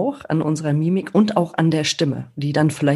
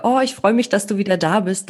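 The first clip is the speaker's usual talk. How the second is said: put-on bright, high-pitched glad "Oh" to a returning child; glad greeting to child; 3 semitones higher than usual. Shown as a demonstration. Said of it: "wenn ich dem Kind zum Beispiel sage".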